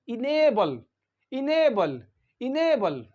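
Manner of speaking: enable said "i-NAY-bul", long stressed A; careful pronunciation. Shown as a demonstration. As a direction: model enable clearly, falling at the end. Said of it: "How do we pronounce this word".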